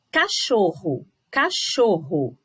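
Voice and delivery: "cachorro" slowly, with CHO strong; stress on CHO. Shown as a demonstration. Teacher showing pupils the tonic syllable, stressed CHO. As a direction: stretch and lean on CHO in "cachorro". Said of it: "o cho aparece bem forte".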